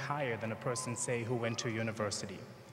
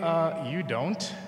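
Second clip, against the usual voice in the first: slow, higher, incredulous question; stunned disbelief; 4 semitones higher, 4 dB louder, much slower than usual. Retold or imitated. His inner reply to the driver's compliment, slow and higher. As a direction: let the disbelief stretch out slowly. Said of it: "I'm thinking".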